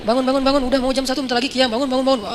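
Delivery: repeated, mildly urgent mock rousing; pretend wake-up call. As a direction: keep nudging sleepers, stalling for time. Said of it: "Pura-pura ngebangunin teman".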